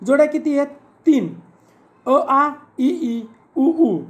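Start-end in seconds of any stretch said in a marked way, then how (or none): 2.1-4.0 short and long vowels sounded in pairs; vowel pairs recited. Shown as a demonstration. Teacher shows like vowel pairs, sounded out in twos. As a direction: pair each short vowel with its long one. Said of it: "सजातीय स्वर असे म्हणतो".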